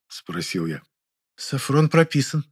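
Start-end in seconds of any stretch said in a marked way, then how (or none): 1.3-2.4 timid squeak. A narrator's reading. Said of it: "несмело пискнула Муза".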